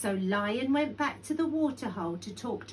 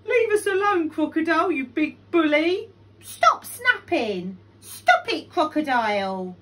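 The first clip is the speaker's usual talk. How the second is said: loud, high protest; indignant shouting; 7 semitones higher, 10 dB louder than usual. A narrator's reading. Animals shouting at the bully Crocodile, loud and indignant.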